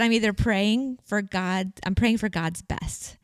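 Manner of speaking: sweet, careful self-quote; sweetly eloquent. Retold or imitated. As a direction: gently correct the record, taking your time. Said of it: "she said it so sweetly and eloquently".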